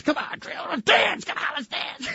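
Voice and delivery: high breathy coaxing; high pleading. Retold or imitated. Farley begging Trailer to dance, high and coaxing. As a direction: coax her up high.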